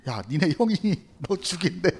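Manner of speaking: mother's warning through a laugh. Acted. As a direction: warn him while breaking into laughter. Acted warning, teller laughing. (웃음 섞인 경고)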